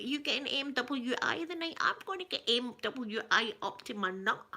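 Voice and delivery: lightly mimicked Ned texting talk; a hint of local youth voice; young Ned lingo. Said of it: "I can talk to the young people".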